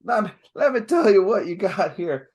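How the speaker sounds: high-pitched blustering Southern blowhard; hammed-up fake Southern accent; Michael Moriarty. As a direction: bluster like Foghorn Leghorn. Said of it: "he would come in and he's like".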